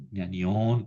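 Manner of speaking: "ñanión" stressed on the final ÓN; stress on last syllable. Shown as a demonstration. Teacher illustrates the genitive plural rule, final-syllable stress on "ñanión". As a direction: put the accent on ÓN in "ñanión". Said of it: "siempre lleva el acento en la última".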